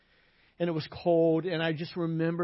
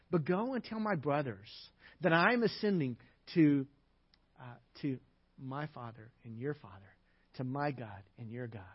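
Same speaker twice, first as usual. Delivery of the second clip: soft, low, tender instruction; quietly comforting her as he sends her; gentle Jesus; 4 semitones lower, 5 dB quieter than usual. Retold or imitated.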